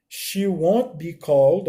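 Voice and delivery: slow, deliberate English; slow emphatic demo; slow model reading. Shown as a demonstration. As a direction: model it slowly for the class. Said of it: "ó, reparem".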